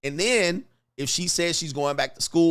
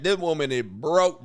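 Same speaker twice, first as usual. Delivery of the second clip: usual speaking voice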